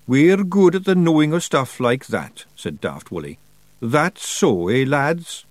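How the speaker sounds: high Scots pixie voice, slow and hopeful; a wee Scots pixie begging to keep a pet; Feagle voice. Acted. Feagle voice held.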